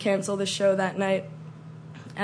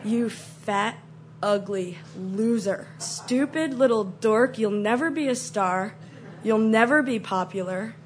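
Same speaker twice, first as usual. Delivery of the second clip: high school bitch. Retold or imitated. Popular girl's look putting down an outcast, catty disdain. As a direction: put them down like a catty schoolgirl. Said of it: "high school bitch look that's just like".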